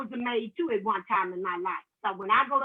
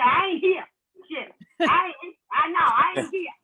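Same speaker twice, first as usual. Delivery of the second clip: calling out; 6 semitones higher, 6 dB louder than usual. Pretend. Hiding behind the door.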